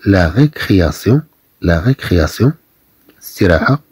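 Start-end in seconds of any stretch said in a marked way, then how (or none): 0.1-2.5 لا ريكرياسيون with a clear s in سيون; French example word. Shown as a demonstration. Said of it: "مثلًا". (نطق لا ريكرياسيون بوضوح)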